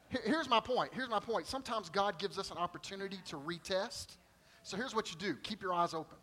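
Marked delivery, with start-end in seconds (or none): none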